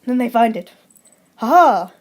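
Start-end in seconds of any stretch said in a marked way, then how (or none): 1.4-1.9 triumphant police. Acted. Police finds the evidence.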